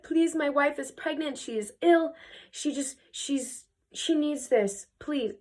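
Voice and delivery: high-pitched, earnest mock begging; acted desperate appeal; pleading husband. Husband begging the witch for mercy.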